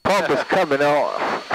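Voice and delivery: slow southern drawl, coming off; southern accent. Shown as a demonstration. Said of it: "Now you gotta say it with the southern accent".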